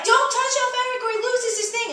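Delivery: put-on a kid scolding Mom about the elf; child's warning. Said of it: "someone was like".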